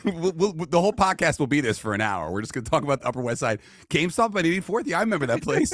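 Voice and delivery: high, loud hammed-up fascination; mocking the host's chat with fake interest; sarcastic mock enthusiasm. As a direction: ham up fake excitement about a GameStop. Mocking boring neighborhood talk.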